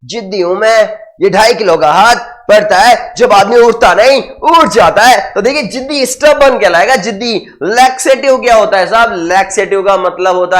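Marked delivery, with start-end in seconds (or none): 0.1-5.3 Sunny Deol impression. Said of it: "Sunny Deol बोलता है ना".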